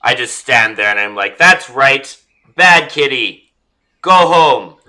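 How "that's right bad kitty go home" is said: loud, high scolding; scolding a tiger. Acted. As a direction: shoo it home, louder this time. Yelling at tiger.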